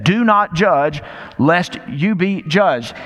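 slow, weighty, stress on not; emphatic quote. Shown as a demonstration. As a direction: hammer home the command of not judging. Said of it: "let's not lose the emphatic, exclamatory nature".

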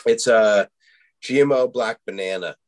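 hiccuping mid-sentence; talking through hiccups. Real, not acted. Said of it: "excuse me, I got the hiccups".

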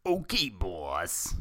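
slow, dopey lackey voice; hammed-up goon reply; henchman. A narrator's reading. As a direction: agree dimly with the boss. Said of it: "said Bebop".

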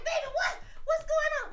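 high, loud mock alarm; alarmed mother. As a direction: call out like a mom running down the stairs. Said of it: "mom voiced rushing downstairs".

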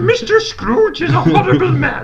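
high, slow Kermit impression. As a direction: puppet frog voice.

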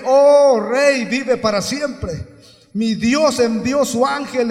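very loud, ringing pulpit delivery; impassioned preacher, voice thrown out hard; full-force preaching. Real, not acted. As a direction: proclaim scripture, building to a shout.

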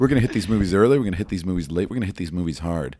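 dramatic trailer announcer; movie trailer voice. Acted. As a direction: build it like a film trailer. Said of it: "movie trailer voice".

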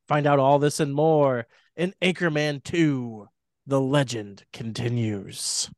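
dramatic trailer narration; movie trailer voice. Acted. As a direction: read it like a film trailer. Reads plot like a trailer.

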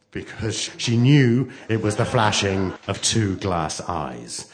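measured suspense, lingering on details; story narration. A narrator's reading. Narrator describing what Turkey sees outside, suspenseful. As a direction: build dread through deliberate pauses.

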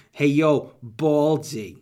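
New York mob wife snapping; mafioso wife. Acted. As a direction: bark at him like a mafia wife. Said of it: "sound like a mafioso wife when I say Baldy".

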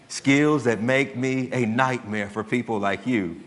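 imitating a cold calm father threatening the kidnapper; lightly voiced Taken speech; Liam Neeson threat. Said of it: "And he says".

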